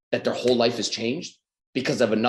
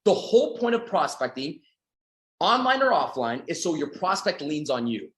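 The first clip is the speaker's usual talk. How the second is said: slow dictation pace; dictating slowly. Shown as a demonstration. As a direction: say it slowly so they can write. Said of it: "Just write it down for a second".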